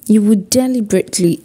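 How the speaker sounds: deliberately given clear weight; stress on deliberately. Shown as a demonstration. Speaker tells viewers to note the word, stressing deliberately. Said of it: "emphasis on the word deliberately".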